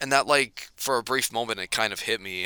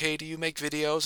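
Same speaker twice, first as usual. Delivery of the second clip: soft, secretive, high, hushed stage half-whisper; 6 semitones higher, 4 dB quieter than usual. Retelling how a woman who recognized the speaker half-whispered a question to them. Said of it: "she whispered to me and she's like".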